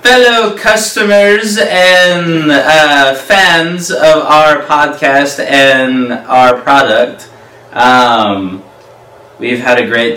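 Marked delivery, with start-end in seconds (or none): 0.1-7.3 slow, lightly regal address; royal speech. Acted. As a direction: address the crowd like a king.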